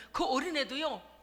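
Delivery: ordinary delivery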